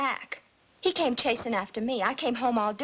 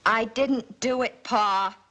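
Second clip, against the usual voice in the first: insistent denial; 2 semitones lower, slower than usual. Acted. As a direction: dig in and insist. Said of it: "you've got to stop saying that".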